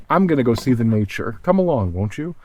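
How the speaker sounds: habitual catchphrase delivery; vlog intro. Acted. Vlogger repeating his familiar intro line to viewers. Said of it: "you really get into the habit".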